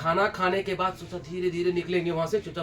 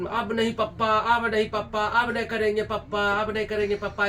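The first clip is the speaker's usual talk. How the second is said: mock child pleading; 3 semitones higher than usual. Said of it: "ऐसे करता था".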